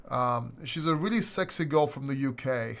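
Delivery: tipsy, giggling through it; a few drinks in, laughing. Real, not acted. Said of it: "Sorry, I've been drinking".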